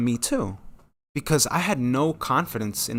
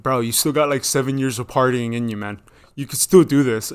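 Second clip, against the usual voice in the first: bro friend urging; 6 dB louder than usual. Retold or imitated. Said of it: "remember somebody like".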